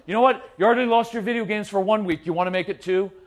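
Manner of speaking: a fed-up father raising the stakes; angry threat. Retold or imitated. Dad threatening video game loss.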